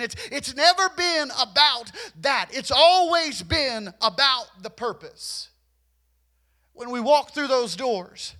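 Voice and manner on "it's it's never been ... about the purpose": preaching climax. Real, not acted. Sermon climax.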